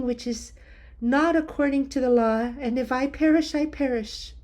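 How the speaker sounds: a hint of a queen steeling herself to risk her life; Queen Esther. Esther tells Mordecai she will go to the king, resolute.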